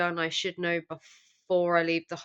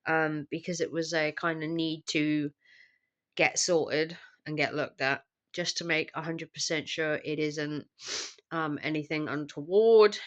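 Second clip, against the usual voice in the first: sick voice. Real, not acted. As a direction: voice worn down by the flu. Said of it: "as you can hear, it's not giving up".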